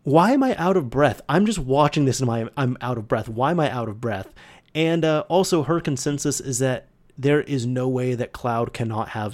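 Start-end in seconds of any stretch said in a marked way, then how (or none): 0.0-4.3 mock-baffled protest that settles toward normal; quoted girlfriend. Retelling girlfriend's reaction to watching the stairs, mildly exclaimed. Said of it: "she was saying, she's like".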